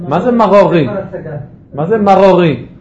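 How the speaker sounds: מרורי with a throaty rustled R; guttural resh in מרורי; rustling resh. Shown as a demonstration. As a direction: rasp both R sounds in מרורי at the throat. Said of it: "הרשרוש הזה".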